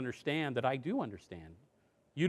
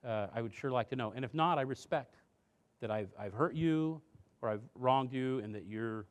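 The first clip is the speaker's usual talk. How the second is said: soft apologetic parent; 5 dB quieter than usual. Shown as a demonstration. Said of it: "say things like".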